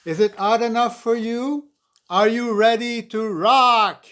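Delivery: loud, high call to the crowd; hyped MC. Acted. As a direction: pump up the crowd like an emcee. MC hyping the crowd.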